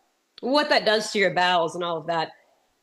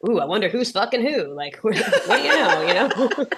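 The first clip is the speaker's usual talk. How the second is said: gossipy laugh; 3 semitones higher than usual. Retold or imitated. Gossiping fantasy in hospital.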